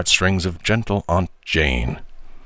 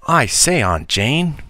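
put-on boy talking through a mouthful, pitched up; mouth full; 7 semitones higher, slower than usual. A narrator's reading. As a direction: speak round a crammed mouth. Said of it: "as much distinctness as the crowded state of his mouth would allow".

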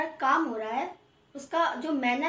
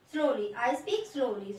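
slowly; 3 semitones lower, much slower than usual. Shown as a demonstration. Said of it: "मैं धीरे धीरे बोलता".

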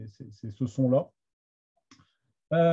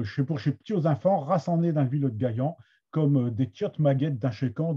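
Somme Picard accent. Shown as a demonstration. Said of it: "avec, euh, mon accent de la Somme".

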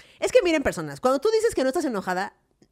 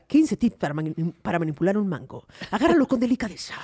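tips video voice; 5 semitones lower than usual. Pretend. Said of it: "un video que diga".

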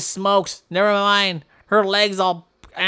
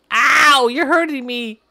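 mock pain; 3 semitones higher, 4 dB louder than usual. Being attacked in skit.

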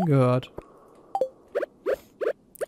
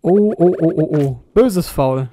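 loud anxious oh-oh; alarmed; 6 dB louder, slower than usual. Real, not acted. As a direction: gasp out in alarm. Lebensgefahr im Spiel.

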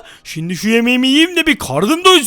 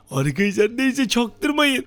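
hushed aside; 6 dB quieter, slower than usual. Real, not acted. Secret aside to viewers.

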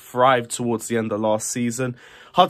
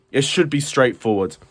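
"should" emphasised as a hedge; stress on SHOULD. Real, not acted. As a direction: lean on the word "should". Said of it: "Emphasis on the word should be".

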